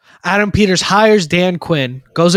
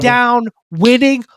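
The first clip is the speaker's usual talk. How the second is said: higher-pitched, emphatic hype; fired up; 5 semitones higher than usual. Real, not acted. Podcaster praising the team's winning football, fired up. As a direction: punch each word with real fervor. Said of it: "almost needed a crash card for you today".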